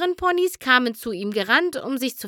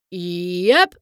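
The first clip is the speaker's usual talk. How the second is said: casual yep; 6 dB louder than usual. Acted. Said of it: "mit einem lässigen Nicken".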